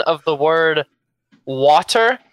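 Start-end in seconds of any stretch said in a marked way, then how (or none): 1.4-2.2 "water" with an open ah, as most people say it; standard pronunciation. Shown as a demonstration. Guest shows host how normal people say it, standard pronunciation. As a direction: say "water" the mainstream American way. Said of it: "that's the way normal people say it".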